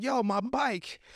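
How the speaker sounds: high-pitched protest after a thief; mock outraged call. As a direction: call out as if robbed, without shouting. Acts victim calling after bike thief.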